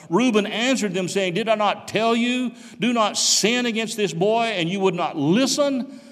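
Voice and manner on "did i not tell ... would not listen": higher-pitched, insistent rebuke; mild reproach. Acted. Reuben answers his guilty brothers, mild reproach. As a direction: read it as an I-told-you-so.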